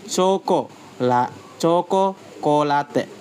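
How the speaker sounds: "chocolate" broken up, firm stress on "cho"; stress on first syllable. Shown as a demonstration. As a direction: lean on "cho", splitting "chocolate" into parts. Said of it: "stressed firmly on the first syllable".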